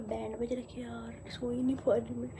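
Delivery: exhausted late-night grumble; sleepy. Real, not acted. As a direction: drag it out, half asleep. Complaining about no sleep.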